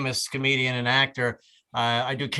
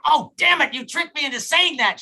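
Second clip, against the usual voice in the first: mock exasperation; 11 semitones higher than usual. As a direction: protest like someone caught in a trick. Mock protest at being tricked.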